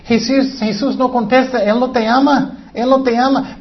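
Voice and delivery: leve voz de tentador, más aguda; tentación de Satanás. Retold or imitated. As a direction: susurra la duda como un tentador. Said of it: "viene Satanás con una tentación que dice". (Satanás tentando, apenas caracterizado)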